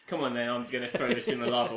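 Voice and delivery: lightly voiced impatient judge; a hint of a curt, dismissive host. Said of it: "the single right there was like".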